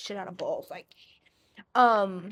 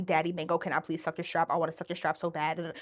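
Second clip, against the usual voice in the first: rapid low mumble; 4 semitones lower, 4 dB quieter, faster than usual. Retold or imitated. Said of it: "start rapid fire calling me".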